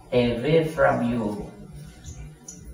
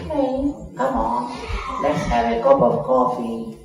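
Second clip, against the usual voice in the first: lightly voiced friend inviting you over; friend calling out; 2 semitones lower than usual. Friend calls you for coffee.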